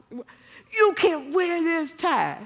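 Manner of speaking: high, slow, exasperated mock scold; hammed-up exasperated wife voice; mock fussy wife. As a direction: play up the nagging wife, drawn out and loud. Repeats the scold.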